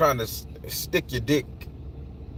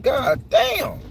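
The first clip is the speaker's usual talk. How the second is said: higher, exasperated god damn; a stunned, pitched-up curse; exasperated outcry; 12 semitones higher than usual. Retold or imitated. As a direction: throw it up in mock disbelief. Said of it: "I said".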